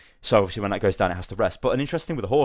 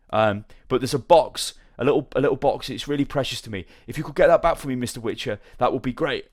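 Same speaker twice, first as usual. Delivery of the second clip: lightly voiced, higher-pitched merchant; a hint of a put-upon trader begging a favour; pleading merchant; 5 semitones higher than usual. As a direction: play a humble merchant lightly.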